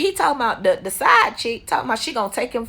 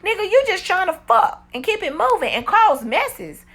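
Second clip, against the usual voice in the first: retold scolding; 8 semitones higher than usual. Scolding him in retold quote.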